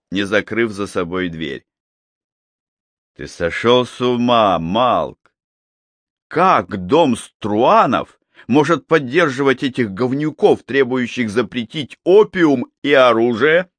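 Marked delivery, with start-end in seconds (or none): 3.2-13.7 angry. Acted. Dmitri bursts in, outraged.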